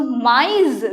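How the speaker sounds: MAIS with its two vowels sounded separately; vowels separated. Shown as a demonstration. Teacher showing learners a tréma word, MAIS with vowels separated. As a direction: give each vowel in MAIS its own sound. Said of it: "we separate it".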